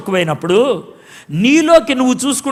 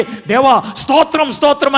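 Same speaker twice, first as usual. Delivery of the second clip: mock piety; 3 semitones higher than usual. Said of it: "అని drama ఏదో".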